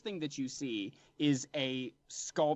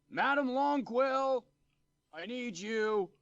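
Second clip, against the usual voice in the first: calling out; 11 semitones higher, slower than usual. Acted. Gatekeeper calls for Madam Longquill.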